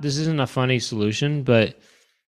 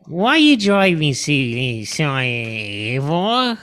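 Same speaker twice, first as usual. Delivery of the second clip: drawn-out, slow mock Aussie accent; slow mock Australian; much slower than usual. Friend retrying the slow-driver line, slow mock Aussie. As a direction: stretch it in a clumsy Aussie voice. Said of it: "Australian accent".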